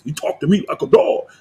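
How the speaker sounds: mock whispered quote of the pastor; breathy mimicry of his complaint; imitating Dow. Mocking the pastor's own words back at viewers. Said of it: "I heard him say it several times".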